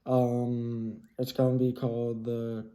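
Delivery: muffled behind a mask; talking through a cloth mask; through a face mask. Real, not acted. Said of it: "Sorry about the face mask".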